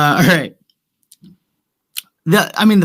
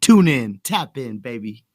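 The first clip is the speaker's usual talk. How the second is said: streamer sign-off voice; 4 semitones higher, slower than usual. Pretend. Mock streamer sign-off, fading.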